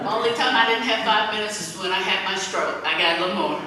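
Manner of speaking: laughing through the words. Real, not acted. Joking to the audience about her stroke, laughing. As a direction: chuckle the joke out.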